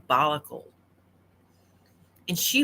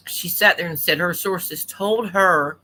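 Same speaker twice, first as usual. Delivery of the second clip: mouth full; 4 dB louder than usual. Real, not acted. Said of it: "sorry, I'm eating".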